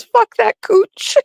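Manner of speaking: squeaky high voice, slow and drawn out; laughing high squeal quote. Retold or imitated. Reading friend's crude text, squealing with laughter. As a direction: squeal it through giggles. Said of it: "And then she goes".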